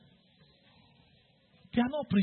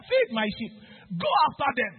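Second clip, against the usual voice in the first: voicing Jesus; 5 semitones higher, 3 dB louder than usual. Jesus voiced commanding Peter.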